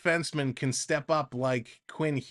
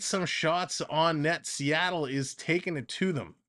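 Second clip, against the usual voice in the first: excited call, much higher on the rebound; rising excitement through the scramble at the net; breathless hockey call that builds at the crease; play-by-play; 4 semitones higher than usual. Acted.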